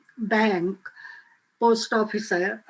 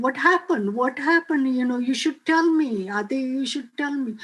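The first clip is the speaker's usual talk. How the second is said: mildly insistent questioning, pitched a little higher; retold urgent plea; 3 semitones higher than usual. Mom begs Adi to tell what happened, mildly pleading. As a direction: lightly imitate a mother pressing for an answer.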